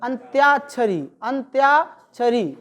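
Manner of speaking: अंत्याक्षरी with a deliberate य glide; careful model word. Shown as a demonstration. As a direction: spell out अंत्याक्षरी with the य clear. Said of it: "अंत्याक्षरी होता है".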